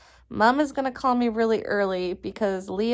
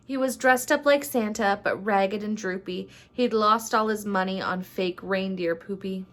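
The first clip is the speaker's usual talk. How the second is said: measured, rhyming storybook narration; story read-aloud. A narrator's reading. Vlogger reads a rhyming Christmas story to viewers, storybook narration. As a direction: read it like a holiday picture book.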